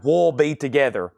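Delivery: "We'll" leaning toward "wool", Southern style; Southern contraction of "We'll", run into one syllable; Southern accent. Real, not acted. Auctioneer reading a song title in Southern accent, "We'll" like "wool". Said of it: "That is my Southern accent at its best".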